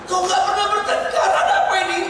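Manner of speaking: mock incredulous retort. Retort to couple never quarreling.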